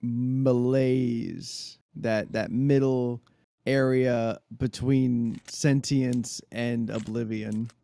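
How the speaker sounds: slow, drowsy drawl; tired but firm. Real, not acted. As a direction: drag the words out sleepily.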